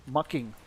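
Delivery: making said as "mucking", Finnish style; Finnish pronunciation. Shown as a demonstration. Streamer repeating the Finnish version, making as "mucking". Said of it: "That's how we would say it".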